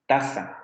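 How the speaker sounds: "taza" said TA-za with a falling end; stress on first syllable. Shown as a demonstration. Teacher repeating the marked example, "taza" stressed TA-za. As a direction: put the accent on TA in "taza". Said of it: "El acento en la primera sílaba".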